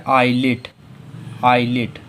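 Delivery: आईलिट said "ailit" with a silent S; model pronunciation. Shown as a demonstration. Teacher drills आईलिट with the pupils. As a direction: drop the S in आईलिट. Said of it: "तो इसे क्या पढ़ेंगे?".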